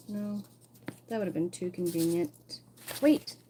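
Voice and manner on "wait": a quick, high, loud "wait" on noticing something; a real jolt of surprise; sudden surprise. Real, not acted. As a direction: catch yourself mid-thought, startled. Sudden discovery while checking vinyl.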